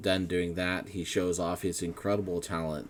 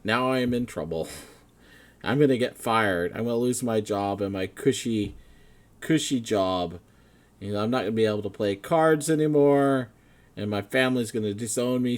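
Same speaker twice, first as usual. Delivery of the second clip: higher, louder, fast worried babble; spiralling panic; 4 semitones higher, 8 dB louder than usual. Acted. Officer spiralling into panic about losing her job. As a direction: rush through the worries as they pile up. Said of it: "goes down this rabbit hole".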